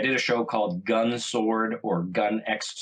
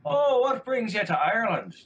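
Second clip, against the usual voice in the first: higher, friendly local's voice; Irish pub guy; 11 semitones higher than usual. Retold or imitated. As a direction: play the curious stranger at the bar. Voicing the Irish stranger.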